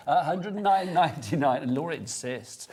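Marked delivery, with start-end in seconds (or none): 0.1-1.6 mock Welsh accent. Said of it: "I can do the accent".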